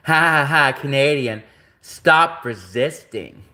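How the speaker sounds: imitated mocking cop with a spoken ha-ha; mock an officer's gloating, dragging out the command; laughing cop taunt. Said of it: "and he was laughing".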